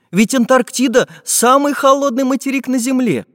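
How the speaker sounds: high-pitched wondering question; Чижик surprised. A narrator's reading. Чижик wonders about penguins in the cold, high surprised voice. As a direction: ask it in high, puzzled amazement. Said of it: "удивился Чижик".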